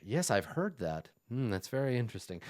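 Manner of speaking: softly humouring a talker; polite disinterest. Acted. Game master as the Vidochin answering Ironclad's chatter, with mild polite disinterest. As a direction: murmur mild, noncommittal interest.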